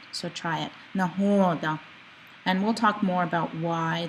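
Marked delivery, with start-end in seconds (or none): 0.9-1.8 NAHODA with a long, falling middle vowel. Shown as a demonstration. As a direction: draw out the "ho" in Nahoda and let it fall. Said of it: "it kinda has a falling sound to it".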